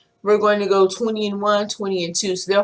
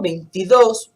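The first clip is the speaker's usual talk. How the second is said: veintidós with the stress on the final dós, a bit louder; 4 dB louder than usual. Shown as a demonstration. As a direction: hit the last syllable of veintidós. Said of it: "put the stress when you pronounce it".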